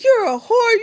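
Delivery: high, loud imitation of an angry mother; retold mother's first accusing shout; mock angry mom. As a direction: throw the insult like a furious mom. Mom yelling at pregnant daughter.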